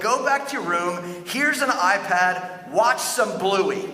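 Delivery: a tired parent handing over a screen; dismissive Eli. Retold or imitated. Eli waving little Samuel off with an iPad. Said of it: "Eli would be like".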